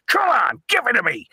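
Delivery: high-pitched pleading yell, mildly hammed-up; retold demand. Host retells him praying to TV demon, mock high-pitched cry. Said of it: "He's going".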